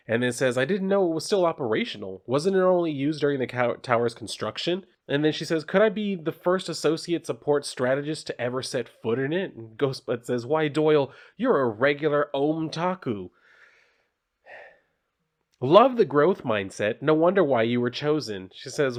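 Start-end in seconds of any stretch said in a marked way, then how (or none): 0.6-9.5 put-on eager young worker. Doyle voiced in comic reading. 10.5-18.5 perky mascot. Acted. Ghost Bud voiced.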